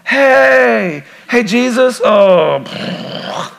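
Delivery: high, sheepish mock greeting; flustered caught-off-guard believer. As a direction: fumble for words like someone caught slacking. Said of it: "You're like".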